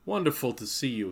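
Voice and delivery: high, loud, delighted greeting; exclaiming. A narrator's reading. Block greeting Greta at the door, loud high delight. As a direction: burst out in joyful welcome. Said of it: "he exclaimed".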